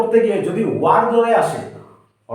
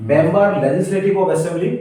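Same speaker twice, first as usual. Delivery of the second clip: each word drawn out very slowly; slow spelled-out read; much slower than usual. Shown as a demonstration. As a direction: lay out the full form carefully. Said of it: "MLA এর full meaning". (ধীরে পুরো নাম বলা)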